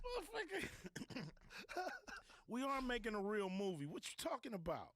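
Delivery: imitating himself snapping back in disbelief; indignant retort. Retorting to the director.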